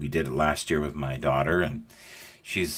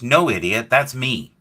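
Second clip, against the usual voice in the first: louder, higher imitated retort; imitating an exasperated grandfather; exasperated reveal; 6 semitones higher, 6 dB louder than usual. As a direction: hit it hard, correcting a fool.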